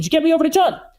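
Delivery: self-assured, confident, pitched very high. Speaker demonstrating how to ask a gatekeeper to be put through, confident. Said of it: "I am yep. confident".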